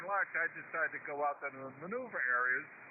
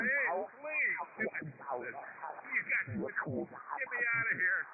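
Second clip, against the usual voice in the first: high, pleading yelp, slowing at the end; mock pleading; 6 semitones higher, much slower than usual. Stuck driver begging the tank crew, mock pleading. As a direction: beg them to pull you out.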